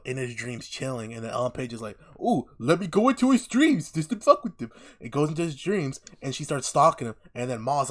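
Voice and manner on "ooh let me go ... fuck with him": higher, louder teasing mimicry; mock her like a meddling snoop; mocking nosy girl. Mocking the nosy dream intruder, in a higher teasing voice.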